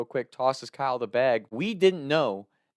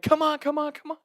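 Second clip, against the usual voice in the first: high, loud hurried calling; urgent calling; 3 dB louder than usual. Retold or imitated. Friends calling him to escape, high and urgent. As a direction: wave them out the window.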